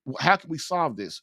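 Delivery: low, earnest and conciliatory; loving appeal. Shown as a demonstration. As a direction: reason tenderly with your wife, keeping it low. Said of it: "start it with loving messages like".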